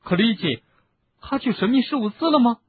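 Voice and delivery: high, loud urgent shout. Acted. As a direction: shout the question after him. Harry keeps shouting.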